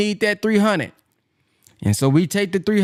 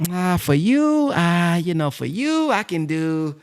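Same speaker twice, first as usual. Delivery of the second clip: mock pawnbroker. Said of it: "They be like".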